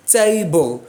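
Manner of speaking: TABLE split into two beats; measured two-part TABLE; syllable by syllable. Shown as a demonstration. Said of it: "Table has four".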